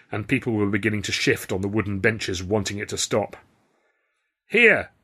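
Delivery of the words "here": high, loud call; shout. A narrator's reading. Man volunteers his friend from the benches, shouting. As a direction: shout it out from among the crowd. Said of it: "a voice near me shouted".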